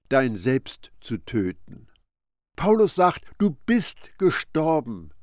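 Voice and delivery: normal talking voice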